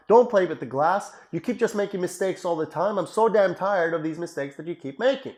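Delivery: a mild mock rant, scolding and belittling; angry father. Dad scolding his child for breaking a glass, mildly exasperated. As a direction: nag the child with tired contempt. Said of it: "Dad comes up and says".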